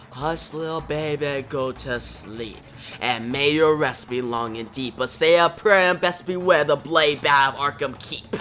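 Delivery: lightly voiced lullaby with menace; villain's mock lullaby. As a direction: recite a creepy bedtime verse, building at the end.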